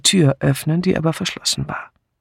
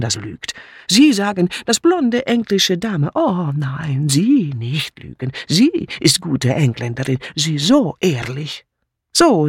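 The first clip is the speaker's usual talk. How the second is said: put-on heavy accent, swooping scornful intonation; bitter foreign maid. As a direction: protest like a wronged refugee maid. Mitzi bitterly protests.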